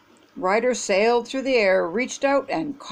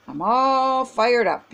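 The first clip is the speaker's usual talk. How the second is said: slow, drawn-out excited cheer; excited exclamation; 3 semitones higher, 3 dB louder, slower than usual. Acted. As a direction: stretch it out with excitement. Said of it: "he exclaimed".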